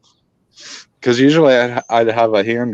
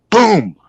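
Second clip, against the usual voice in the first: booming imitation of a heavy thud; imitated thump; 8 semitones higher than usual. Hunter retelling the thump he heard, imitated boom. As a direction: punch it out like an impact.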